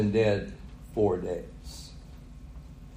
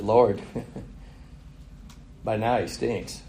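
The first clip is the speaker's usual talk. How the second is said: laughing quote; 2 semitones lower, 7 dB quieter than usual. Retold or imitated. Martha objects, preacher laughing.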